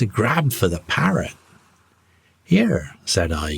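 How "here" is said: sharp, higher call; getting mad. A narrator's reading. Captain stops the mate grabbing the bird, sharp call. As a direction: stop him with one angry word. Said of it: "getting mad".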